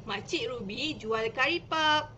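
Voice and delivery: slow, clear read of the short sentence; slow shortened reading. Shown as a demonstration. Teacher shows parents a simpler line, slow. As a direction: read it slowly for a small child. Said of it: "kita ambil, uh, isi yang penting".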